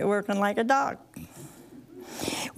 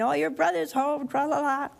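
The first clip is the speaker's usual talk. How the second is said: excited servant; 4 semitones higher than usual. Retold or imitated. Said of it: "that servant so excited".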